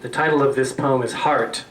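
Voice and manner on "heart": measured recital with weighted pauses; poetry reading. Acted. Poet reading a short poem to an audience, measured recital. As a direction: let each phrase ring, then pause.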